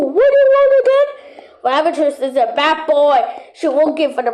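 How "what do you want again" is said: fast eager question. Pretend. Fast high question in play.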